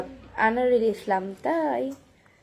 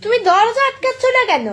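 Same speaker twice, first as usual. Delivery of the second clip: calling out; 10 semitones higher, 7 dB louder than usual. Real, not acted. Calling out about the door.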